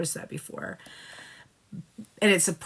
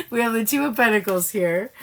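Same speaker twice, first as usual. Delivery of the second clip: slightly higher, just after a laugh; real amusement; 4 semitones higher, 3 dB louder than usual. Real, not acted. Tarot reader amused that both sides drew a two, laughing. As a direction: still amused after cracking up. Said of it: "I'm laughing 'cause the Feminine's also got a two".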